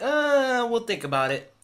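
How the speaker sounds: mock hesitant mother; mom voice. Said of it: "the mom's like".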